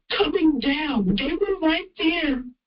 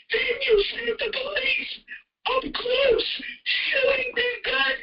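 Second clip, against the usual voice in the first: crying; 5 semitones higher than usual. Real, not acted. Crying while telling shooting.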